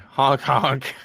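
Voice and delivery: clown honks, lightly voiced; silly clown. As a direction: honk like a goofy clown. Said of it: "that's very good. Very, very good".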